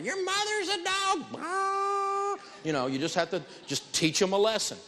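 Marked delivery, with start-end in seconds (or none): 0.0-2.4 much higher, slow sneering mock collector; mock collector insult. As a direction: ham up a rude debt collector's jab. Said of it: "They call up and start".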